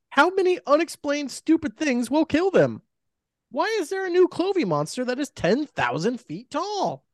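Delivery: high, hammed-up trailer questions; mock trailer voice. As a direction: pitch up like a cheesy trailer. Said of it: "the reading of the plot".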